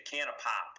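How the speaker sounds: "pop" with a drawn-out Michigan O; "can of pop" with a Midwestern long-held O. Shown as a demonstration. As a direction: stretch the vowel in "pop". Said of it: "that drawn out O sound".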